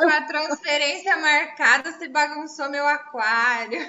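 mock cursing patient. Patient secretly cursing the doctor for ruining her cycle, mock grumble. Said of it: "no fundo ela me xingava".

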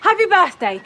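loud, high exclamation; loud birthday cheer. Acted. Prompted to wish Prue happy birthday, loud cheer.

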